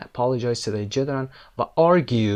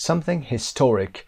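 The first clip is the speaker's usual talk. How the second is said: HISTORIC slowly, leaning on the middle syllable, TOR; stress on TOR. Shown as a demonstration. Teacher rereads the phrase, stress on TOR in HISTORIC. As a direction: give TOR the weight in HISTORIC. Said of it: "استرس روی تی هست".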